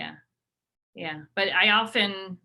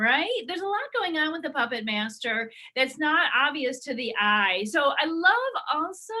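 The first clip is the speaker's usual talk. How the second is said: lightly voiced enthusiastic guest, higher; bubbly guest; 5 semitones higher than usual. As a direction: guest raving about her hairstyle. Guest gushes about hair.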